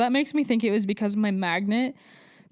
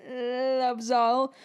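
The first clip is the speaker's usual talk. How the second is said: "Loves all" with a real catch of tears; voice breaking; 2 semitones higher than usual. Real, not acted. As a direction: let "Loves all" crack, close to crying. Speaker affirms faith, voice breaking.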